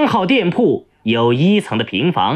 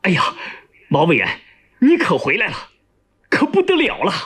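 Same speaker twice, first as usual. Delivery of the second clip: urgent cry; faster than usual. Acted. Chief of staff urgently calling to the returning commissioner, agitated. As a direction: cry out in mild alarm, urgently. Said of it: "急急地喊道".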